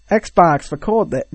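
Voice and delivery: badly faked American accent; British speaker's clumsy go at American; attempted American accent. Shown as a demonstration. Friend tries American so the Xbox understands, shaky American accent. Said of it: "I'll do an American accent".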